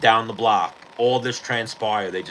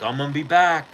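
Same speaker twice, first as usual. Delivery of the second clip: retold screaming threat; 5 semitones higher than usual. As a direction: imitate a cuffed kid screaming threats. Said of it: "the kid starts screaming".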